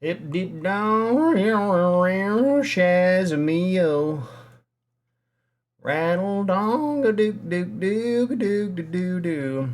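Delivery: high sing-song nonsense voice; silly high chant for a pet; ferret voice. Acted.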